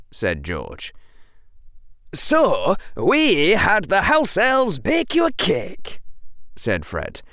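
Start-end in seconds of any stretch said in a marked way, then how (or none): 2.1-6.0 high, bright teasing twin; playful schoolboy teasing; cheerful twin voice. Acted. Fred voiced in story.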